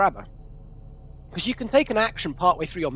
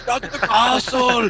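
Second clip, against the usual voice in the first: put-on Austrian accent; 3 semitones higher than usual. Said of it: "as played by Arnold Schwarzenegger".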